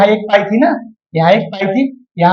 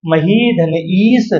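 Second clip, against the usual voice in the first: very slow, word by word; patient drawn-out breakdown; slow dictation; much slower than usual. Shown as a demonstration. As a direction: lay out each piece slowly. Teacher slowly splitting a sandhi.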